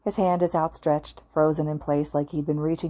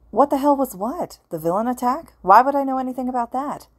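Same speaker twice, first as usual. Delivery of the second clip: put-on agitated young man; 8 semitones higher, 4 dB louder than usual. Confused ghost protests.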